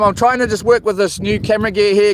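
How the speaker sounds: usual speaking voice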